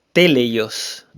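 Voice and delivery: "teleios" stressed on its first E. Shown as a demonstration. Preacher teaching the Greek word, first-syllable stress on "teleios". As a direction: hit the opening syllable of "teleios". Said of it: "con acento en la primera E".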